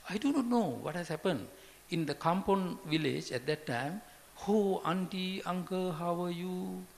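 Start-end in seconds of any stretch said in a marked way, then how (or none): 4.5-6.9 cheerful greeting. Retold or imitated. Kampong villagers greeting warmly.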